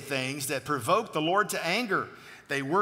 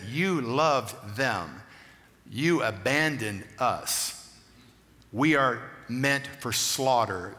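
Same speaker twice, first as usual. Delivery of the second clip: very slow, somewhat lower, lamenting; lamenting psalmist; 5 semitones lower, much slower than usual. Retold or imitated. Preacher voicing the psalmist's lament, slow and low. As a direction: drag it out like a grieving accuser. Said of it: "He said".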